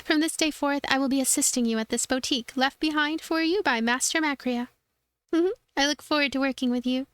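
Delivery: bright little helper, lifted high; high cute girl voice. Acted. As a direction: play the sweet, nervous apprentice. Voices Chirara.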